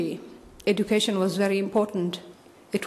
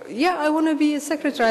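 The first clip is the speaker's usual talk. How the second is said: higher and fast, a lightly voiced eager girl; eager young girl; 8 semitones higher, faster than usual. Young daughter answering her mother about the future, lightly voiced eager girl. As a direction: blurt it out like an excited kid with big dreams.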